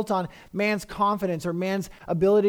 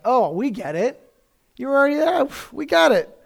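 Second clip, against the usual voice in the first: eager disciples, louder and higher as it builds; excited disciples; 6 semitones higher, 5 dB louder than usual. Acted. Disciples tell Jesus they finally understand, excitedly. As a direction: play the disciples bursting with eager confidence. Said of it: "And they're like".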